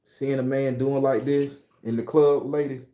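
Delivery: a hint of a cocky loa speaking through him; possessed Baron voice. Streamer lets the Baron lecture viewers, lightly voiced. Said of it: "I don't talk like this".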